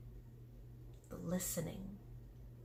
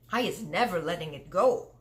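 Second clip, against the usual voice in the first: louder determined giant; firm cry; 5 dB louder than usual. Acted. Giant vowing to keep the nightmare, louder firm cry. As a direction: vow it firmly. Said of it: "the B F G cried".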